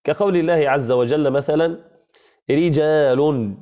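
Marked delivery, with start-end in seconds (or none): 2.5-3.5 thin, light ر in "رجال", drawn out slowly. Shown as a demonstration. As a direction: say "رجال" slowly with a softened, unvelarized r. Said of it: "تكون مرققة".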